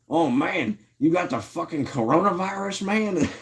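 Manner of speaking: high mock voice of a buddy, pitch climbing; imitating Gary. Retelling Gary's line to a sick streamer, high mock voice. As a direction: ham up the friend's outraged question. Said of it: "And Gary's like".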